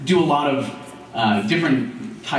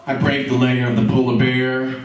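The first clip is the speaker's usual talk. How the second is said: indignant Roy; 9 semitones higher than usual. Acted. Roy scorns the guru's advice, climbing indignant rant. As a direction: build from grievance to outrage. Roy keeps ranting at the guru.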